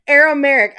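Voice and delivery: "Aramaic" stumbled over with the ending slurred, amid a laugh; accent-mangled word. Real, not acted. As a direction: trip over "Aramaic" in your own accent, loudly. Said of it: "My fucking accent".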